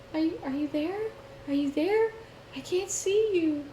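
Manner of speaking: put-on high, small child's voice calling; little kid voice. Prank speaker voice calling to the husband, high little kid voice. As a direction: mimic a lost little kid asking. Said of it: "they play this little kid voice".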